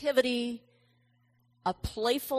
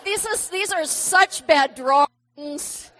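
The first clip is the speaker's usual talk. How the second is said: laughing, louder and slower, mocking her own drawings; laughing at herself; 5 semitones higher, 10 dB louder than usual. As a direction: laugh through the self-deprecating line. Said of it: "I was like".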